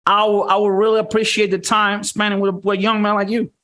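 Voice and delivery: a mock gentleman being tame. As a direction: sound harmless and courteous. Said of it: "he says it in a way like".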